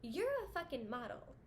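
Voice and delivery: imitating her own blunt retort; exasperated retort. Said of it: "I'm like".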